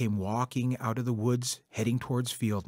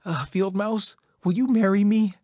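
higher and louder, rushed proposal; nervous beaver blurting out a proposal; blurted out; 9 semitones higher, 7 dB louder than usual. A narrator's reading. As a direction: blurt the question out in a nervous burst. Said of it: "he blurted out".

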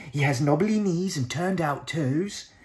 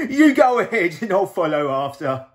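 louder, booming monster voice; Gruffalo voice; 5 semitones higher, 11 dB louder than usual. Acted. Gruffalo eyes the mouse as food, booming. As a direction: rumble it like a big hungry monster.

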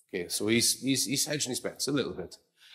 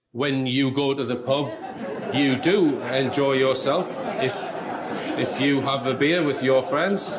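stilted, overly careful phrasing, a bit louder and laughing; mock Neil Armstrong; 3 dB louder than usual. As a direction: parody a man who talks formally even to his wife. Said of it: "He goes around talking like that".

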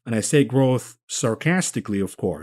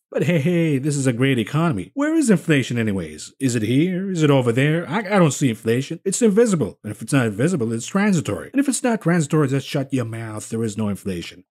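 sarcastic mock denial; faster than usual. Mocking official denial.

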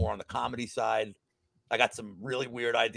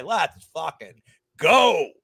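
hyped shout; 5 semitones higher, 9 dB louder, much slower than usual. Real, not acted. Hyped about Saturday morning EPL bets.

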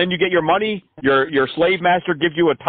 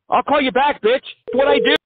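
a giggly, cocky goodbye to the scammer; laughing mock sign-off; 9 semitones higher than usual. Taunting the scammer with his own line, high and laughing.

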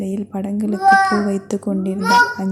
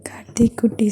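tender whisper. Acted. Husband coaxing his pregnant wife, whispered. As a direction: breathe it to her like a secret.

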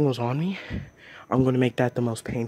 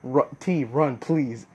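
calling out; 5 dB louder, much slower than usual. Real, not acted. Urging the friend to run.

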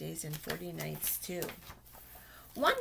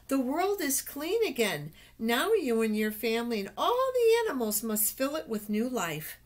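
God speaking; 4 semitones higher, 3 dB louder than usual. Acted. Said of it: "God said to Noah".

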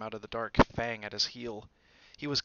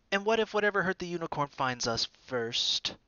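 put-on higher, frightened boy; fearful Malfoy; 7 semitones higher, 5 dB louder than usual. A narrator's reading. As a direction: try to hide the fear and fail. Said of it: "unable to keep the fear out".

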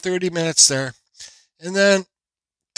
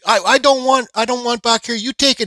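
high mock voice of the cashier, pitched up; imitating the cashier; 9 semitones higher, 5 dB louder than usual. Retelling the hot dog cashier's order, mock high voice. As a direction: put on the cashier's voice, higher and a bit louder.

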